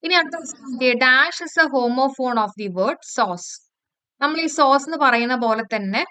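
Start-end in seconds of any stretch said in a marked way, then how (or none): 0.9-3.7 slow, even exam read-out; reading the question slowly. Shown as a demonstration. Teacher reading a test question aloud to students, slow and even. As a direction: read each word out clearly for the class.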